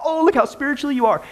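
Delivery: dry mocking praise; sarcastic. Real, not acted. Host mocking the dancers, sarcastic. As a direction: needle them with fake admiration.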